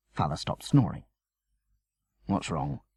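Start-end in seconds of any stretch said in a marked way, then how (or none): 2.3-2.8 soft, drowsy murmur; sleepy murmur. A narrator's reading. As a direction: mumble half asleep. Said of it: "he murmured, sleepily".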